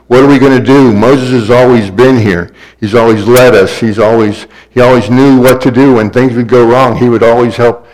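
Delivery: mildly panicked lament; acted worry. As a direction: plead as a people without their leader. Acts out Israel fretting without Moses.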